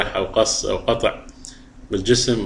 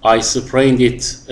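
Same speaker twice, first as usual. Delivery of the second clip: very slow, clear phrase; teacher's model sentence; slow dictation; 3 semitones higher, much slower than usual. Shown as a demonstration. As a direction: read it word by word. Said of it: "reads example sentence to class".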